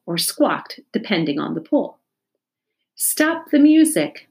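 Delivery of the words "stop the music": a teacher's sharp shout over the noise; loud stop command to the class; sudden shout. A narrator's reading. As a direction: cut through the room with a shout. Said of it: "Missus Jewell suddenly shouted".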